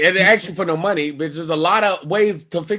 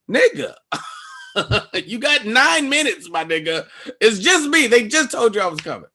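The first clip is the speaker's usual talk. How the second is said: raised, high-pitched argument; indignant protest; 6 semitones higher than usual. Retold or imitated. Arguing with gate agent.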